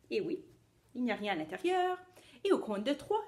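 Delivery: put-on cheerful children's show host; kids party magician. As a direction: play the magician for little kids.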